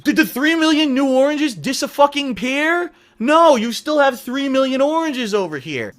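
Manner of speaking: high, loud, slow frantic rant; wild unhinged ranting. Real, not acted. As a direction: rant wildly about the oranges. Ranting oranges analogy, high loud.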